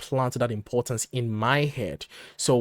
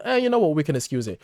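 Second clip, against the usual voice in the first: mock shrugging excuse; 3 semitones higher, 3 dB louder, faster than usual. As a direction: toss off the excuse like it's nothing. Voicing an imagined excuser.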